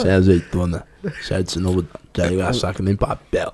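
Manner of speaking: low, laid-back rapper voice on the phone; famous rapper prank call. Pretend. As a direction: play a famous rapper calling a pizzeria. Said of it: "falando que é um rapper famoso".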